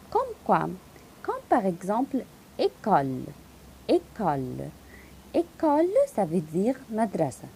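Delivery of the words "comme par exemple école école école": école with a tight closed é at both ends; closed é sound. Shown as a demonstration. Teacher modelling école, closed é. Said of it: "donne-moi le son fermé".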